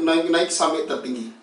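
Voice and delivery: naik, naik climbing step by step; climbing pitch. Shown as a demonstration. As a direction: lift each naik up to the top. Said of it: "kita latih dari rendah".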